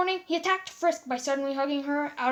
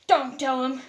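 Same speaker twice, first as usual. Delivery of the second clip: panicked plea; 5 dB louder than usual. Acted. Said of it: "said in panic".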